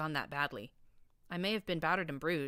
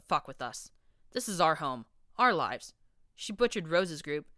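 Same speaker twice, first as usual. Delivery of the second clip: a hint of a louder, ranting radio host; radio host stirring up his listeners against security, mildly harsh rant; harsh grating voice; 3 dB louder than usual. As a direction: rant at the listeners like a sneering shock jock. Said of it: "a buck's harsh and grating voice".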